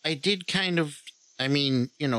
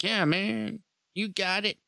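eager bro voice; 8 semitones higher than usual. Retold or imitated. Voicing eager agreement.

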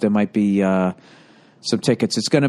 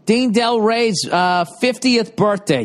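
excited announcing; 10 semitones higher, slower than usual. Acted. Announcing the event.

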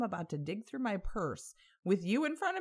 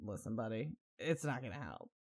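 lower, much softer deadpan; quiet aside; 8 semitones lower, 8 dB quieter than usual. Retold or imitated. Telling the bloody stranger a Band-Aid won't help, hushed deadpan. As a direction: mutter it under your breath. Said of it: "And I'm like".

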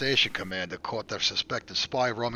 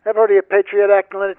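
loud, higher-pitched challenge; interrogator's raised-voice threat; forceful interrogation; 6 semitones higher, 11 dB louder than usual. Acted. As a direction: hit the suspect with it, much louder.

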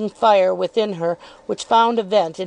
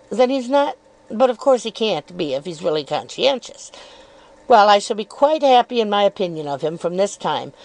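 lightly raised, coyly probing voice; insinuating Miss Dartle. Acted. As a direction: feign innocence while needling.

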